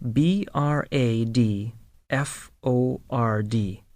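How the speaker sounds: spelled out letter by letter. Shown as a demonstration. Teacher spelling the word for learners to follow. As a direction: spell each letter clearly. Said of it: "spelling the city".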